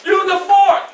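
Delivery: high, loud laughing correction; hammed-up foster mother; lady scolding kindly. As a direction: tell the boy off with a laugh. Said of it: "And the lady said".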